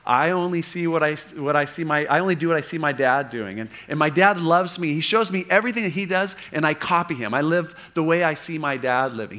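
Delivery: preacher voicing Jesus talking about his father; lightly voiced Jesus. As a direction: speak of dad with affection. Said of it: "He'll say".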